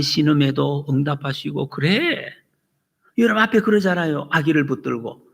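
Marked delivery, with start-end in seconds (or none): none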